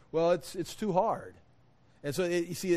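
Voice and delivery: ordinary delivery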